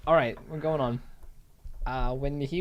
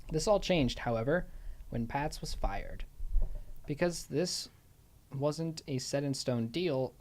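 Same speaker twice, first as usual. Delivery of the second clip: measured, scripted storytelling read; true-crime narration. Acted. Host tells co-host about Scarver's son, narrating. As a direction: read the biography out as prepared narration.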